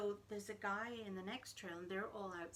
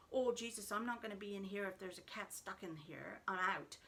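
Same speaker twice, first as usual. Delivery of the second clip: loud flustered outburst; loud panicked retreat, half comic; alarmed exclamation; 4 dB louder than usual. Retold or imitated. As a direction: blurt it, already heading for the door. Fleeing the trailer with the dog.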